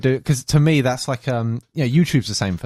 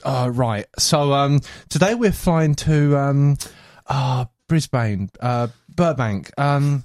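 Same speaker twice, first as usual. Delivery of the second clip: clueless pilot; 2 semitones higher, slower than usual. Acted. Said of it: "the guy gets on and he goes".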